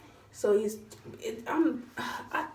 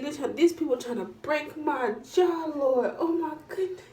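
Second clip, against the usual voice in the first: inner cry of alarm; panicked thought; 5 semitones higher than usual. Retold or imitated. Her panicked thought while the jaw is pulled, higher. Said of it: "I'm thinking".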